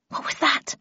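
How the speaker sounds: a touch of startled alarm. A narrator's reading. Narrator jolted between books, mildly alarmed question. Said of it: "I asked in alarm".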